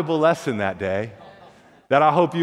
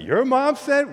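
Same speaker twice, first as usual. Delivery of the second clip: put-on much higher, stunned kid; can't believe it, pitched up high; amazed friend; 9 semitones higher, slower than usual.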